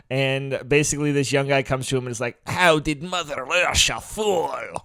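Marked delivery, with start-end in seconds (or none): 2.5-4.8 mock Russian accent. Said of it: "doing his best Russian accent".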